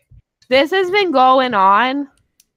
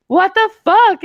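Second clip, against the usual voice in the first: retold angry outburst; 10 semitones higher, 7 dB louder than usual. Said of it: "And he was like".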